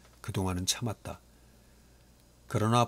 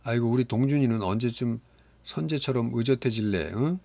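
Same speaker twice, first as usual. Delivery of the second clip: teasing father; 4 semitones higher, 4 dB louder than usual. Acted. Father teases his son.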